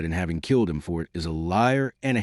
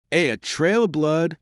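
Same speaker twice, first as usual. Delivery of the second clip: faltering; 8 semitones higher than usual. A narrator's reading. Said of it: "he faltered stupidly".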